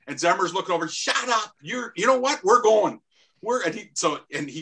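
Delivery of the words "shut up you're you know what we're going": angry retort. Retold or imitated. Teammate snaps back at opponent.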